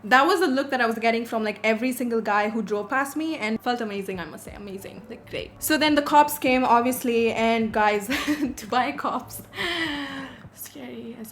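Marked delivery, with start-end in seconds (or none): 4.2-5.5 sarcastic. Real, not acted. Sarcastic about amazing feeling.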